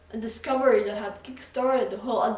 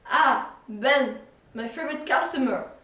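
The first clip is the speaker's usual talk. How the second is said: a hint of a jolly shopkeeper, louder; 4 semitones higher, 6 dB louder than usual. Jolly shopkeeper greets his favorite customer, lightly voiced. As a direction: greet him like a beaming shopkeeper. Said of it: "announced the jolly man".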